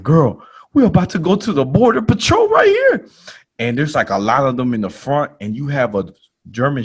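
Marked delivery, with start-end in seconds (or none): 0.0-3.1 high, loud panicked warning; alarmed whisper-turned-yelp to a friend; mock panic, much higher and louder. Panic on seeing border patrol.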